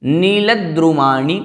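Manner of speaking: नीलद्रुमाणि slowly, long "nee" and "maa"; drawn-out teaching take of नीलद्रुमाणि; careful pronunciation. Shown as a demonstration. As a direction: model नीलद्रुमाणि as neela-dru-maa-ni. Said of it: "इस प्रकार से लगभग यही कठिन पद".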